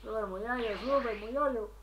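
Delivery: put-on Cuban accent.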